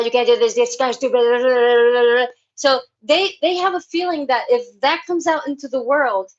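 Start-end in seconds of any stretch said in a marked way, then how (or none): 0.0-2.2 bickering inner voice. Retold or imitated. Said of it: "voice bickering all day long".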